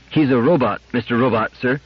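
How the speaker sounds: put-on eager child explaining; lightly voiced earnest child; little girl. A narrator's reading. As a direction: answer politely and brightly as a small girl. Little Gloria explains to the robot.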